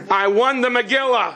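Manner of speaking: high laughing cry of disbelief; half-laughing shock at winning. Retold or imitated. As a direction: blurt it out through a laugh. Groom shocked at raffle win.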